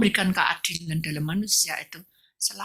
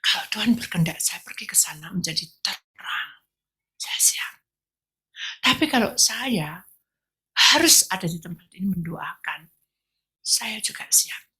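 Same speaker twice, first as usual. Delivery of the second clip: humble whispered prayer. Retold or imitated. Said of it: "Ternyata dia hanya bilang gini".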